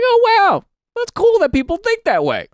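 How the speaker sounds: high, breathy-free gushing voice; a high, mock-delighted oh wow; mock flattered gush. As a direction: gush like you're pleasantly flattered.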